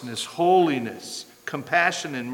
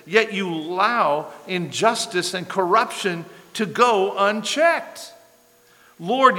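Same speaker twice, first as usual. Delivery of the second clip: higher, louder impassioned plea; pleading complaint; 4 semitones higher, 3 dB louder than usual. Acted. Prophet pleading with a silent God, higher and louder. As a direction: press God with rising urgency.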